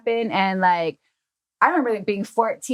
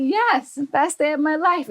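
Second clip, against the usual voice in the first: put-on much higher, gushing child voice; mock eager kid; 7 semitones higher than usual. Young daughter answering her dad, high and gushing. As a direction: squeal it like an excited little kid.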